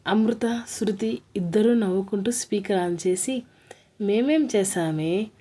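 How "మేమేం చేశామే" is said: slow, wide-eyed playing dumb; mock innocent. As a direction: feign confused innocence. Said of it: "అయోమయ-, అమాయకంగా". (అమాయకంగా నటిస్తూ)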